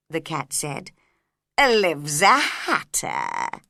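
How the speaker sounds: slow loud sly cat telling secrets; Cheshire Cat voice. A narrator's reading. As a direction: stretch it out like a mischievous cat.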